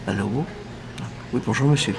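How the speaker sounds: low, feeble phone answer; lightly acted drained, low morning hello; weak morning voice. Shown as a demonstration. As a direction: imitate answering the phone with no strength. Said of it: "j'ai pas de force".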